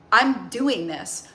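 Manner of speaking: slow, steady talk to the inner critic; firm, calm self-talk. Shown as a demonstration. Speaking to her inner critic Crystal, slow and firm. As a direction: take the wheel back, calmly. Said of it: "I call her Crystal. And I say".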